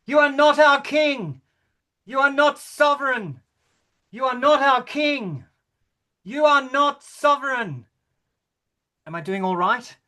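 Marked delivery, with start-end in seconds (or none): 0.0-7.9 higher chanted protest; raised heckle. Acted. King acting out the Black Queen's heckling. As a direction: hammer each line at the king. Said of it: "perform it as if I were her".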